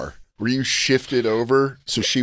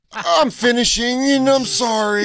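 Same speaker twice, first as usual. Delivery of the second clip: mock climax voice; 11 semitones higher than usual. S1 acts out the climax.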